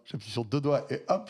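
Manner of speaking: airport announcement voice; like a terminal loudspeaker call; over a PA system. Retold or imitated. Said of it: "je fais la voix d'aéroport".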